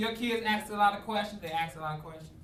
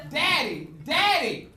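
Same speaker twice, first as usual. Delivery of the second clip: put-on high, louder kid calling; child calling daddy; 7 semitones higher, 6 dB louder, slower than usual. Daughter calls to her driving dad, high and eager. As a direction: call out like an eager little girl.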